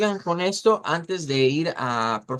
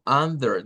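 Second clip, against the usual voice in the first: under kept low and even; under said low before the stress; low unstressed under; 3 semitones lower than usual. Shown as a demonstration. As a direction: keep under down, no push. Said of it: "Mantenemos abajo".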